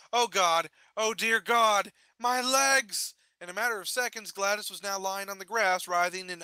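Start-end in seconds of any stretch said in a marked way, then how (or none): 0.1-3.1 pained cry. Acted. Legs just broke.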